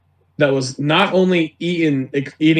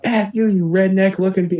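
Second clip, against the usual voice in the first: retold screamed cursing; 6 semitones higher than usual. Homeless man cursing at the manager, mock angry yell. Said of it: "just screaming, like".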